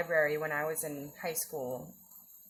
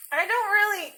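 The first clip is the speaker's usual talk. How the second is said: laughing; 12 semitones higher, 9 dB louder than usual. Real, not acted. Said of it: "let's hear your best Swedish accent".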